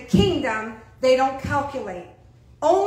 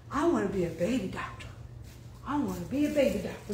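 put-on child's voice; 3 semitones lower, 5 dB quieter, faster than usual. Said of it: "first son, said".

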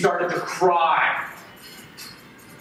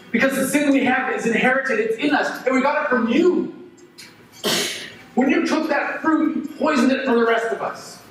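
higher, raised blame; angry accusation; 3 semitones higher than usual. Acted. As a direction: throw it back at your parents. Accusing parents.

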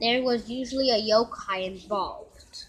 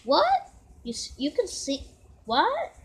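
startled exclaim; 3 semitones higher than usual. Acted. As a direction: jump out of your skin in surprise. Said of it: "he exclaimed".

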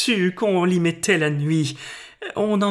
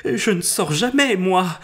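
sincere, open-hearted. Acted. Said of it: "Elle dit de bon cœur".

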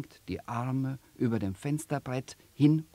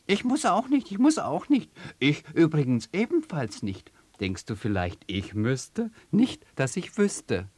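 hoch und munter durcheinander; fröhlich antworten; 5 semitones higher, 5 dB louder than usual. Acted. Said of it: "antwortet man ihm fröhlich". (fröhliche Vogelschar)

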